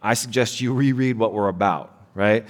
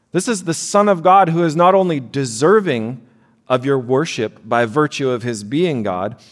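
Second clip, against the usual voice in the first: preaching climax; 4 semitones higher than usual. Real, not acted. Climax of the sermon.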